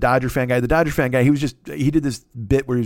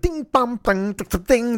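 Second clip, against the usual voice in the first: high sing-song robot chimes; ping out high metallic-style dings; walking robot noise; 10 semitones higher, slower than usual. Retold or imitated. Imitating a sexy robot walking downstairs, high dinging noises. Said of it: "That's the noise when she walks down".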